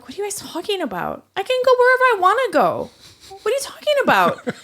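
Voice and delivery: fast, heated pushback; retold outburst. A server telling a coworker off in a heated rant.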